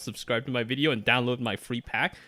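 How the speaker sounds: lightly imitated Hindi accent, tutorial host; a hint of Hindi-accented English. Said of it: "thick, like, Hindi accent be all like".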